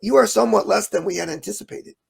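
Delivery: prim, overly courteous heckler; mildly voiced polite heckler; polite Mormon heckler. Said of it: "my impression of a Mormon heckler".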